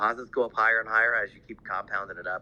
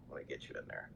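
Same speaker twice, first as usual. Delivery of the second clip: muttering to self; 8 semitones lower, 18 dB quieter, faster than usual. Real, not acted. Muttered aside while adding speaker.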